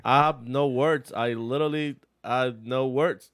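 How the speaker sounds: lightly voiced dazed humble driver, slowing at the end; a mild mock of a stunned champion at a loss for words; James Dean impression. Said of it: "That's my James Dean impression".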